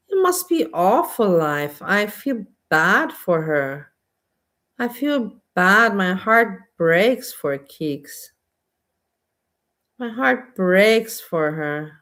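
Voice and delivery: sincere sympathy. Real, not acted. Sympathy for Keeks, slowed.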